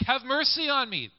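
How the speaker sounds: high plea for mercy; beggar's plea. Acted. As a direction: cry out like a beggar. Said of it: "this is one of the standard".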